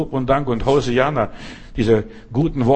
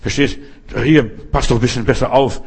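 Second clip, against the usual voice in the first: scolding. Retold or imitated. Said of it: "fangt an zu schimpfen".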